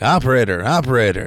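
loud, insistent caller; caller demanding operator. Acted. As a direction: call out for a human on an automated line. Acted caller fed up with machine.

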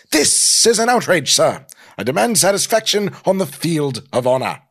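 high, loud British indignation; outraged snobbish British. Acted. Insulted Norman challenging caveman to a duel, outraged snobbish British. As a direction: demand a duel in snooty British. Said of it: "in a snobbish British accent".

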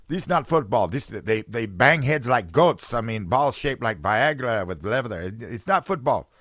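mock Eastern European complaint, punched out in a thick accent. Host voices a baffled Eastern European viewer of football, Eastern European accent. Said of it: "can you do an Eastern European accent".

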